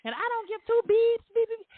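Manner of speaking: very high rapid-fire censor beeps; son beeping out swears. Retold or imitated. Son censoring his cussing for mom, high beeping rant. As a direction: imitate a kid bleeping his rant, pitch way up. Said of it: "You can just beep it out".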